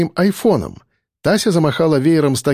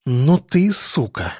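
through teeth; much slower than usual. A narrator's reading. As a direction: spit it slowly through clenched teeth. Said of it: "процедила Акулина".

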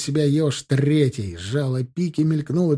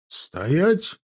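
short command bark, mildly raised; 3 semitones higher than usual. A narrator's reading. Corporal stopping dragoons leaving post, barked order. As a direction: halt them with one word. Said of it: "рявкнул на дёрнувшихся было драгунов".

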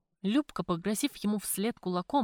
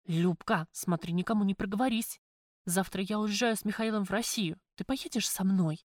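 решительно. Acted. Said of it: "решительно произнесла я".

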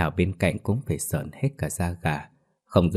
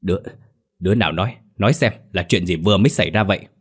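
stammering; faster than usual. Acted. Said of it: "lắp bắp".

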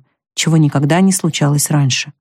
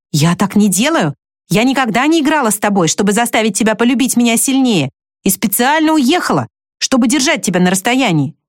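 put-on a lightly higher young woman's voice, earnest; Jo, lightly voiced; 5 semitones higher than usual. Jo denying she plays games with Laurie, lightly voiced. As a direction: Jo protesting gently, a lightly voiced girl.

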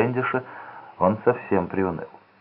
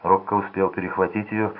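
ordinary delivery, nothing marked

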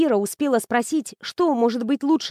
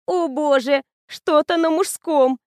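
slow, raised, swooning mock awe; delighted swoon; 5 semitones higher, slower than usual. A narrator's reading. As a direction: gush over a manly move. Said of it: "восхитилась Ира".

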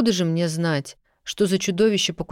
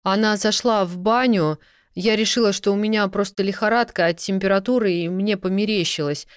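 flustered rambling; 4 semitones higher than usual. Acted. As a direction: tumble out a scared, confused account. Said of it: "сбиваясь".

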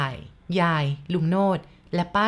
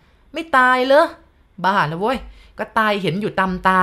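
shocked outburst; 2 semitones higher, 5 dB louder than usual. A narrator's reading. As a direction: exclaim in loud disbelief at the news. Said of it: "ยายเอะอะ". (เอะอะเสียงดังด้วยความไม่เชื่อ)

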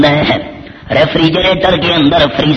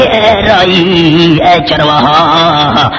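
slow, long-held call to a shepherd; drawn-out call; much slower than usual. Acted. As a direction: call out, stretching each vowel. Calling out to the shepherd.

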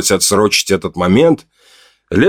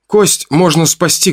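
trying to sound sure; 7 semitones higher, slower than usual. Acted. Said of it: "стараясь говорить уверенно".

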